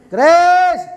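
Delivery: loud, high call across the house; mother calling. Retold or imitated. Mother calls her daughter to help, loud high call. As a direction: shout the name up high like a mum. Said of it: "Coba Mama yang panggil".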